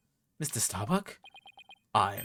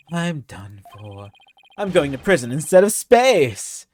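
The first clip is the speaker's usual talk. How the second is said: despairing wail; 5 dB louder than usual. Acted. Despairing astronaut voiced in game.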